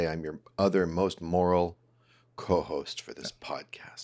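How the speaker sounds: low, slow breathy whisper. Shown as a demonstration. Co-host whispering his own intro to listeners. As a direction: whisper it like a secret.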